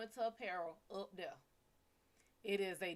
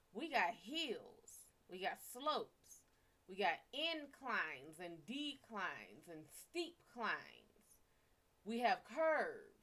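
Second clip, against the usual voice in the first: slow emphatic list; slower than usual. Acted. Slow list of southern roads.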